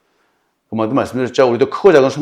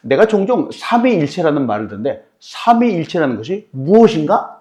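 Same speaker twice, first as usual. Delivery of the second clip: a touch of raised sarcasm; mocking question; 5 semitones higher than usual. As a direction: test him with a sneer. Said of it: "어디 한번 좀 들어보세요".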